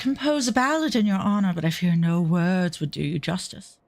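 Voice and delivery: lightly posh flatterer; a hint of a courtly charmer; Thancred. Charmer praising a woman's beauty, lightly voiced flattery. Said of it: "I'm really doing a shit job with Thancred".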